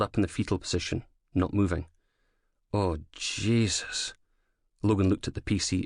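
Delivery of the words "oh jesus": horrified. Acted. Horrified at victim.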